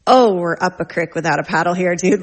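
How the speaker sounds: loud, exclaimed parental dismay; mock alarm. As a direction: blurt it out like an overwhelmed parent. Mom's alarmed reaction retold.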